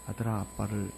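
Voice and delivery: low, softened, halting plea; humble apology. Retold or imitated. Father kneeling before his son to apologize, low humble plea. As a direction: ask forgiveness gently, pausing between phrases.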